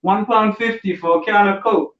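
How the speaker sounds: hammed-up outrage at a vending machine; mock outrage. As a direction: play shocked at the price. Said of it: "you're like".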